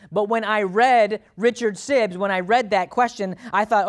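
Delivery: loud, high, insistent preacher delivery; worked-up preaching. Real, not acted. Preacher recounting his objections to an old sermon, worked-up preaching. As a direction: pile up the objections forcefully. Preaches excitedly at full force.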